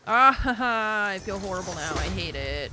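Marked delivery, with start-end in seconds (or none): 0.0-1.1 slow rueful laugh. Real, not acted. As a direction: laugh at yourself, slowly. Laughs at failed sneeze.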